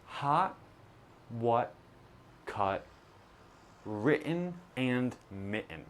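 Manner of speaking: each word with a sudden throat stop for the T; glottal T words. Shown as a demonstration. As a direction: clip the T in the throat on every word. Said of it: "pronounced with a glottal T".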